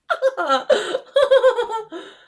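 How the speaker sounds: long high bright laugh; loud high giggle fit. Real, not acted. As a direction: burst out giggling at yourself. Laughing at her spinning.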